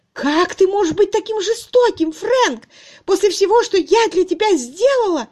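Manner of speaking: very high, loud tearful voice; an old fiancée pleading with a cruel lover; heartbroken wail. A narrator's reading. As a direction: cry it out in anguish. She begs, heartbroken.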